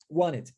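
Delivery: "Want it" as a low, fused "wan-it"; American dropped T. Shown as a demonstration. Teacher repeats the American form, T dropped. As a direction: drop the T of "Want" and link it to "it". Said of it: "a omissão do T".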